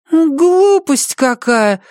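put-on high, slow, scornful child; eye-rolling scorn. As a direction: dismiss it with an eye roll. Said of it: "закатил глаза Бенни".

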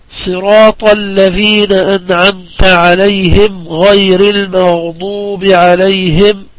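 slow, measured verse recitation; Quran recitation. Shown as a demonstration. Teacher reads out a verse for a tajweed exercise, slow recitation. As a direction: recite it unhurriedly, drawing out the long vowels.

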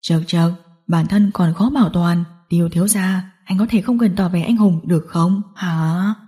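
low, lightly voiced gangster; mocking villain. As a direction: scoff at a helpless captive.

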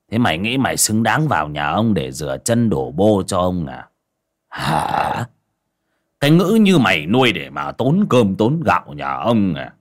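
scornful village tyrant sneering; contemptuous moneylender. Acted. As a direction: look down on him and mock. Moneylender mocks indebted man.

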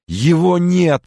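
high, loud anguished moan; moaning cry. Acted. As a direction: moan it to his face. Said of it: "простонал он".

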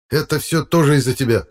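an irritated professor flaring up. A narrator's reading. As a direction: bristle at him again. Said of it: "снова вскинулся".

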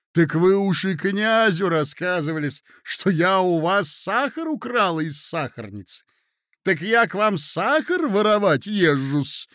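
indignant lady. Acted. Lady confronting her hostess over the sugar story, indignant. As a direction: take offence and stretch the key words.

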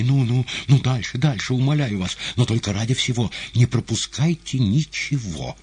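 eager listener's outbursts; eager exclamations. A narrator's reading. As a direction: hurry the story along excitedly. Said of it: "прерывал Ивана восклицаниями".

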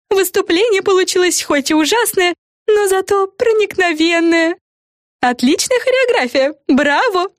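lightly voiced fairy, high; a hint of a chirpy fairy. A narrator's reading. Fluffanora to the girls, lightly voiced fairy.

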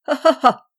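loud, high burst of laughter; a big amused ha ha ha; hearty laugh. Acted. Gentleman leaves laughing at the absurd task, hearty laugh. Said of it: "riant encore".

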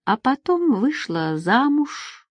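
a hint of bitterness, drawn out; slight bitterness. A narrator's reading. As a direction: let a touch of bitterness creep in, slowly. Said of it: "в голосе вновь послышалась лёгкая горечь".

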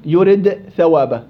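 "يرد ثوابا" said slowly, each sound clear; slow demo reading. Shown as a demonstration. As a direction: read out "يرد ثوابا" slowly as a Quran example. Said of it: "ما العلاقة بين الدال والثاء". (قراءة بطيئة واضحة لـ"يرد ثوابا")

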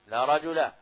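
"رجل" ending in a short -a, no n; without tanween. Shown as a demonstration. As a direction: say "رجل" as rajula, without nunation. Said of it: "دون تنوين".

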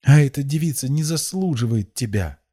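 high, loud scornful outburst; spitting it out. A narrator's reading. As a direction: spit it out with contempt. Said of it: "выплюнула она".

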